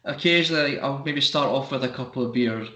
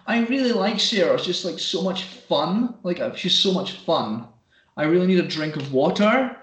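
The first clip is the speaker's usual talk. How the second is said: Fife accent imitation; 3 semitones higher than usual. Mocking girls on the train in a light Fife accent. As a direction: lightly mimic a Cowdenbeath girl's Fife accent. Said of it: "strong sort of Fife accent".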